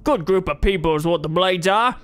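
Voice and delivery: lightly voiced hearty old brawler; a friendly bearded fighter greeting a lad; burly trainer. McRae voice again.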